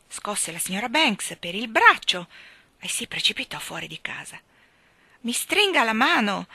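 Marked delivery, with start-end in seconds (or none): 5.2-6.5 loud, higher cheery greeting; cheerful call. A narrator's reading. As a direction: hail him happily. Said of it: "gli gridò lo spazzacamino con voce gioconda". (lo spazzacamino saluta allegro, forte)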